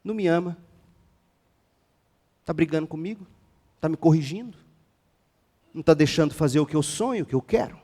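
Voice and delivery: understated voicing of a wounded listener; imitating hurt youngsters. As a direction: mutter the complaints as mock questions. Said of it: "É assim que a gente ouve".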